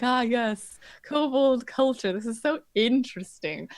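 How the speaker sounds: slightly lifted, drawn-out wonder; wide-eyed fascination. Acted. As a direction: play the eager culture tourist. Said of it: "wide-eyed of someone who's like".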